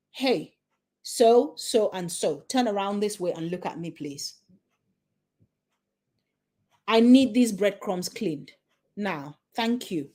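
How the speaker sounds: firm, no-nonsense instruction; calm authority, clear and direct. Shown as a demonstration. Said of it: "Or the one that I said".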